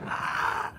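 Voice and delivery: very high thin scream; scream on count. Shown as a demonstration. Leading riders on three, high-pitched scream. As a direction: scream on cue after counting. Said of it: "Dali, sigaw tayo".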